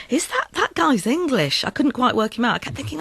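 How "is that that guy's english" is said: doubting inner question, pitched high; puzzled doubt. Retold or imitated.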